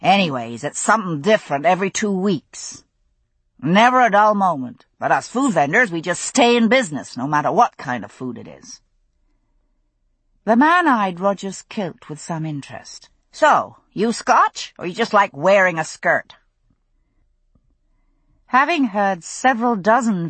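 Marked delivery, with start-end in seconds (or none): 0.0-8.8 a hint of a gabby food vendor; lightly voiced chatty vendor. Vendor explaining the fairs to customers, lightly chatty. 13.3-16.4 lightly teasing vendor. Acted. Vendor teasing Roger about his kilt, lightly mocking.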